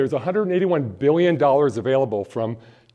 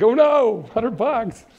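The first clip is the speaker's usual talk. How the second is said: a high, loud yelp of mock panic; mock nervous parent; 8 semitones higher, 3 dB louder, much slower than usual. Parent hearing the hundred-dollar price, mock nervous. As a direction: imitate her sudden money worry. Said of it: "just started getting nervous".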